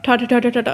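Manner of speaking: even, evenly spaced syllables like gunfire; machine gun rhythm. Shown as a demonstration. Teacher showing students syllable-timed rhythm, mock machine gun rattle. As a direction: tap out each syllable the same, rat-a-tat. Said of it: "जैसे वो machine gun rhythm होता है ना".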